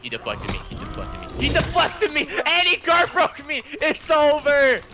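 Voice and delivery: frustrated shouting at the game; raging gamer. Real, not acted. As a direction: yell in real frustration. Losing a fight, raging.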